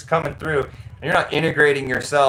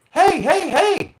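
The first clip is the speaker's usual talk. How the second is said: calling after him; slower than usual. Retold or imitated. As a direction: shout after a customer walking away. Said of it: "she's like".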